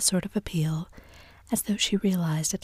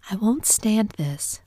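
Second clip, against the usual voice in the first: higher, louder, drawn-out outcry; distressed cry; 5 semitones higher, 5 dB louder, slower than usual. A narrator's reading. Daisy cries out against the men's quarrel, in distress. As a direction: cry out, at breaking point. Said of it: "cried Daisy".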